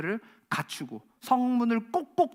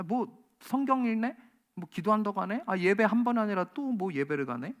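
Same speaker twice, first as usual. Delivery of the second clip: mocking scorn. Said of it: "세상은 때로는 우리를 조롱합니다".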